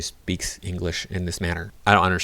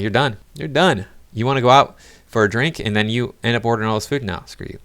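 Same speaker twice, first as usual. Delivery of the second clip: dismissive; 3 semitones higher than usual. Retold or imitated. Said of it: "I would be like".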